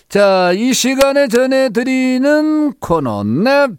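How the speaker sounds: loud, high show-opener announcing; radio show announcer. Acted. Host opens fan-vote corner for listeners, big announcer voice. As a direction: announce it big with stretched key words.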